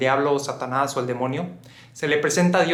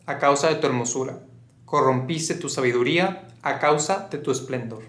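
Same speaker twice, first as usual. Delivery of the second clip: measured recitation, phrase by phrase; scripture reading. Acted. Narrator quotes Ezekiel on the fallen one, measured scripture reading. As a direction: read out scripture with deliberate pauses. Reads Ezekiel passage aloud.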